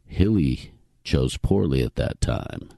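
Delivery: lightly voiced grave old knight; a hint of the solemn Grail knight. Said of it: "You sound like the old knight in that Indiana Jones".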